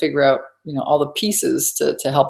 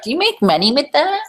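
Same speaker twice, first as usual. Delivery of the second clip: surprised friend; 12 semitones higher than usual. Retold or imitated. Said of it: "she's like".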